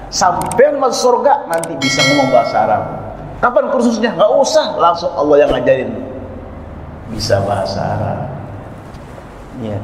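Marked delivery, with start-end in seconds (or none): 3.4-5.9 much higher, teasing back-and-forth; playful exchange. Retold or imitated. Preacher teases the congregation about Arabic lessons, high and playful. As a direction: ask it high and answer brightly. Imagined listener question and answer.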